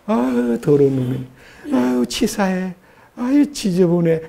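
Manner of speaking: imitating someone disgusted; mock disgust. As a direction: mutter in acted distaste, rather softly. Acting out disgust at dirty behaviour.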